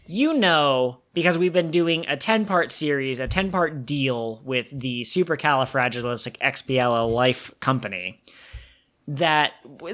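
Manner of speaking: hammed-up commercial pitch; mock ad read. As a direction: sell it like a cheesy TV ad. Hosts mock ad segment.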